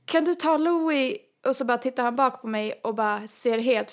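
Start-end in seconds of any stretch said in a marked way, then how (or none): 0.0-1.2 calling out slowly. Retold or imitated. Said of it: "jag skriker till min andra bror".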